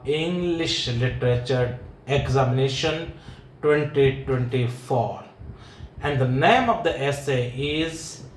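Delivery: slow, deliberate formal lecture opening; formal announcement. Acted. Teacher formally announcing the exam essay to students, slow and stately.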